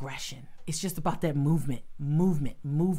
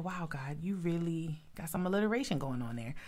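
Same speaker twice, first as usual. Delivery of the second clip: whispered aside to God; 6 dB quieter than usual. Retold or imitated. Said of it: "and I said".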